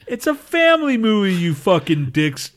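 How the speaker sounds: high-pitched indignant goofy voice; high put-on voice, slowing at the end. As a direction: squeak it out like an offended cartoon. Arguing in put-on voice.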